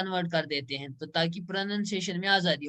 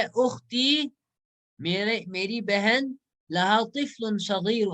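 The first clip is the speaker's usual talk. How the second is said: slow reading aloud; 3 semitones higher, slower than usual. Shown as a demonstration. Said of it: "اس کا ایک چھوٹا بچہ ہے".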